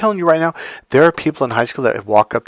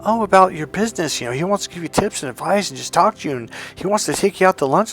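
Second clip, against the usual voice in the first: higher, chatty imitation of mom; imitated mom; 6 semitones higher, faster than usual. Mom explaining the uncle's lunch offer, imitated in a high voice. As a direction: rattle off the invitation in a high mom voice. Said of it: "my mom's like".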